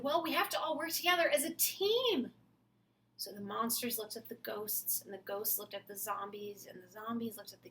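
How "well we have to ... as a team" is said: put-on kid voice. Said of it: "And the kid said".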